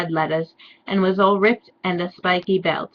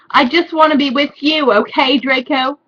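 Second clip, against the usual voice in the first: mock pleading; 6 semitones higher, 4 dB louder than usual. Ebony pleading with Draco.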